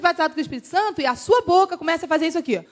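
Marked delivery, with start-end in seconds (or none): 2.6-2.6 burbling run of sung-out gibberish syllables; wordless tongues sound. Shown as a demonstration. Showing the congregation what comes from the mouth, rapid wordless babble. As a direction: let wordless sound pour out.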